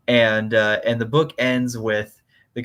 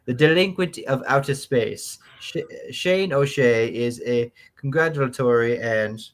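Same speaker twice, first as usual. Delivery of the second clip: mannered, British-sounding fifties letter writer; nineteen-fifties voice. Acted. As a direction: read it out in your best old-time fifties voice. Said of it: "in your best nineteen fifties voice".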